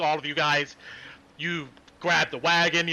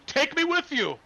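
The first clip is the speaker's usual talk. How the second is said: eager plea; 2 semitones higher than usual. Acted. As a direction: beg to tag along. Yanis begging eagerly.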